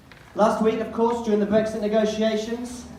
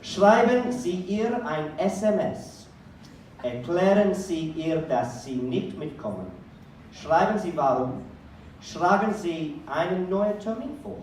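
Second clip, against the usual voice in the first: reading exam instructions. Acted. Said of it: "here were the instructions".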